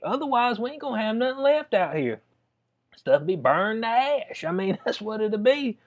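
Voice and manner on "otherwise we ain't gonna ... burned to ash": pleading police chief. Retold or imitated. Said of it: "So she's saying right now".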